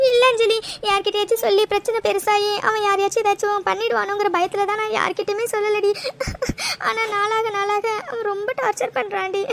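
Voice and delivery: tearful explanation, sobs breaking in; crying. Acted. Explaining to a friend why they kept silent, tearful. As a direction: explain yourself while weeping. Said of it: "முதல்ல அழுகுறது நிறுத்துடி".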